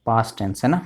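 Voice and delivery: normal talking voice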